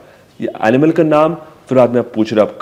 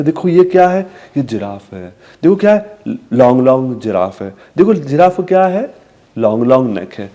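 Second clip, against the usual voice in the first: put-on talking to a toddler. Shown as a demonstration. Parent naming a giraffe for a child, sing-song. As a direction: ask brightly, answer gently. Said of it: "हम उसे बताएंगे".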